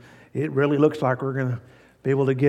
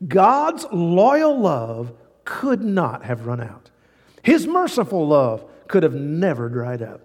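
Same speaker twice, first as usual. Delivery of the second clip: scripture reading. Shown as a demonstration. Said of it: "I want you to listen".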